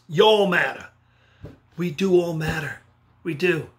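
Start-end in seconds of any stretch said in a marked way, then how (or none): 0.1-0.9 Texas accent, "Y'all" drawn out as yawl, a bit louder. Shown as a demonstration. Speaker leads students in the Texas version, Texas accent. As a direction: say "Y'all matter" like a Texan. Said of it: "you're from Texas".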